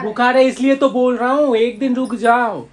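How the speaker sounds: insist, then draw out the last words; exasperated insistence. Real, not acted. Partner urging feverish man to stay home, exasperated insistence.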